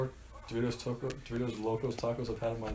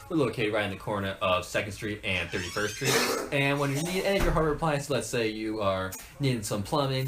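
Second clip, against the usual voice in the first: radio ad voice. Pretend. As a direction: read it like a small-town hardware commercial. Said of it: "We'll be right back after these commercial breaks".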